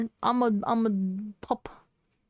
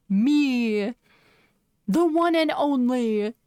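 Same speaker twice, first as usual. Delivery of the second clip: proud; 2 semitones higher, 4 dB louder, slower than usual. Real, not acted. Proud self-presentation.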